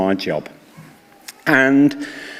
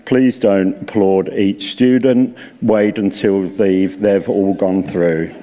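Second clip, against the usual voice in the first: a touch of stuffy officialdom, mocked; mock prissy; 4 semitones lower than usual. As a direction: lower and slower, mocking stuffy rules. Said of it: "prissy universities which say".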